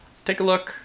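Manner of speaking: high, slow drawn-out whale call; whale impression. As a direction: stretch the words like a singing whale. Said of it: "That's my whale impression".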